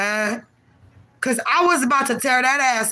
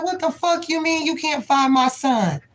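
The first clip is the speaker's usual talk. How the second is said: went off; 6 semitones higher than usual. Retold or imitated. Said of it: "Like, I went off".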